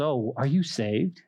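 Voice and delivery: slow, drawn-out teasing question; mocking voice. Mocker to a new believer, slow teasing. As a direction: imitate a taunt, stretching the words. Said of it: "that's exactly the voices".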